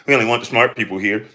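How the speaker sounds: mock-condescending educated snob. Ranter mimicking a pundit talking down on his page, condescending. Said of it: "the way your condescending ass talk".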